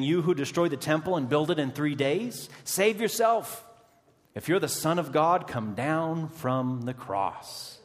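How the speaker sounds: jeering taunt, rising high on save yourself; mocking crowd. Onlookers taunting Jesus on the cross, high mocking jeer. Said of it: "they begin to mock him".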